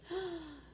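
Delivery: sharp shocked gasp; a quick gasp of surprise. A narrator's reading. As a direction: suck in a startled breath. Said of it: "Arthur gasped".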